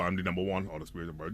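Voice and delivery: deep, quick police officer voice; tough cop voice. Shown as a demonstration. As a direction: growl it like a stern cop. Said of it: "let's do it in a police voice".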